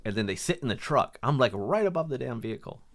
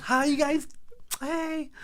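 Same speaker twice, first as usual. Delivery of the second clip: much higher, sing-song fake innocent hi; much slower than usual. Storyteller imitating the fighting couple greeting him, much higher fake-sweet hi. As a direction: greet them as if nothing happened. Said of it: "Like nothing".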